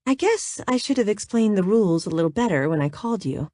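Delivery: breathy and seductive; breathy, sexy. Acted. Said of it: "she said in the breathy, sexy voice she'd used on the phone".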